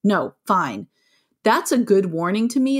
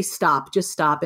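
firm stop; 5 semitones lower, much slower than usual. Retold or imitated. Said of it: "I used to say".

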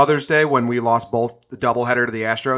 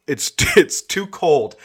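laughing; 3 semitones higher, slower than usual. Real, not acted.

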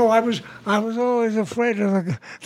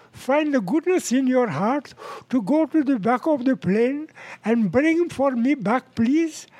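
put-on higher, courtly Arab-accented request; 4 semitones higher than usual. Arab passenger asks his Israeli seatmate a favor, Arab accent. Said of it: "the Arab turns to the Israeli".

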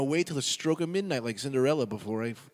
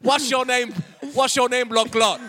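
loud, high pirate challenge; shouting pirate; 12 semitones higher, 10 dB louder than usual. Acted. Pirate demanding a stranger's name, shouting. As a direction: holler it like a crazed buccaneer.

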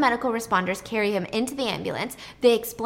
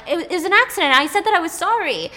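upset protest; 7 semitones higher, 6 dB louder than usual. Retold or imitated. Upset waitress defends herself.

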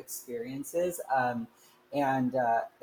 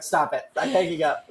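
sister scolding; 3 semitones higher, 6 dB louder than usual. Retold or imitated. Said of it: "she's like".

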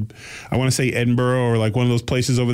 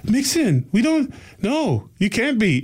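higher, lightly imitated Scottish granny scolding; a prim Scottish granny refusing, higher; mock Scottish accent; 10 semitones higher, slower than usual. Scottish grandma tells him mixing isn't allowed, light Scottish accent, higher. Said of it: "she had a really strong Scottish accent".

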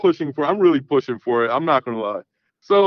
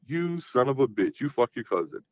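hushed disbelief; 6 dB quieter than usual. Retold or imitated. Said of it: "I'm like".

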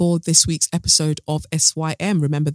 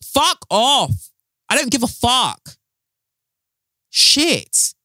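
angry dismissal; 7 semitones higher, much slower than usual. Real, not acted. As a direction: fling it at the critics.

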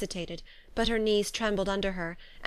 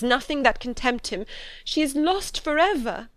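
higher, anguished voice, building louder; distressed confession; 5 semitones higher, 3 dB louder than usual. A narrator's reading. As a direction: confess dreadful news in mounting despair. Tearful confession of dreadful family news.

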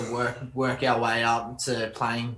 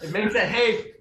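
repeats the slang through a laugh; 9 semitones higher than usual. Real, not acted. Asked to repeat, laughing. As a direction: laugh it out, a touch higher. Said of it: "A what?".

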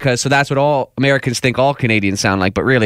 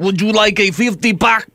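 put-on higher-pitched Quebec accent slipping into German; botched French-Canadian accent; 7 semitones higher than usual. Co-host offering a fifty pack, botched German-sounding French accent. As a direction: attempt French-Canadian, land oddly German. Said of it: "That was German".

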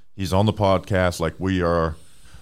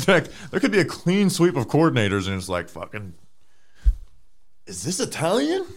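laughing; 6 semitones higher than usual. Real, not acted. Laughing while speculating.

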